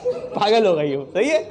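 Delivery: mocking laugh. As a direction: laugh it down slowly. (धीमी, हँसी भरी ताना)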